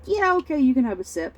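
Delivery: high start, falling as dad gives in; lightly voiced obliging dad; indulgent dad. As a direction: imitate a father relenting to his child. Imitates dad giving in to child.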